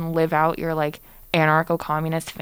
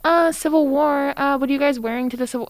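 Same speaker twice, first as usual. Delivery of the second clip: mocking airhead voice; 7 semitones higher than usual. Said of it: "to be like".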